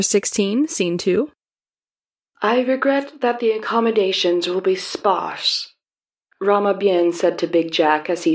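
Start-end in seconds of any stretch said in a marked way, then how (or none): 2.4-5.7 put-on Southeast Asian accent. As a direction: introduce himself in a mild Southeast Asian accent. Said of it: "my attempt at a generic Southeast Asian accent".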